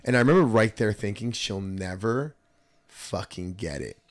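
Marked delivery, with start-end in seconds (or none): 1.3-4.0 slow and softer; bitter inner thought. Retold or imitated. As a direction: drag it out, quietly resentful.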